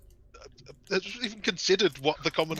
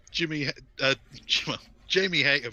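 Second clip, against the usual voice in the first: put-on Irish accent; 4 dB louder than usual. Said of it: "but in an Irish accent".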